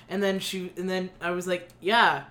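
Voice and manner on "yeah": louder, amused cheer for a friend; lightly hammed-up encouragement; mock cheering. Quoting own cheer at audition.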